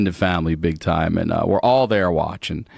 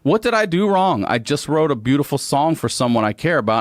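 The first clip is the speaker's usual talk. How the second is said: baffled innocence; 6 semitones higher than usual. Retold or imitated. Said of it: "doesn't understand why he's arrested".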